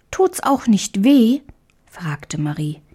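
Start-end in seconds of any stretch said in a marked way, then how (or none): 0.1-1.4 put-on higher, timid childlike question; timid little girl. A narrator's reading. Marie asks the mouse if it hurts, higher timid girl. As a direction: ask like a small scared child.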